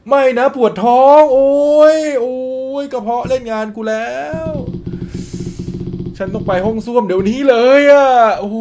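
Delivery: clutch the belly and moan, mock urgent; stomach ache. Character hit by cramps, groaning about the toilet.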